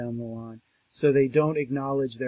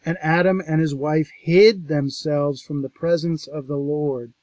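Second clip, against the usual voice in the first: louder, measured Bible reading; scripture reading; 6 dB louder than usual. Acted. Lecturer reading Genesis to the class, solemn. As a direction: read the verse out with weight. Reads the verse.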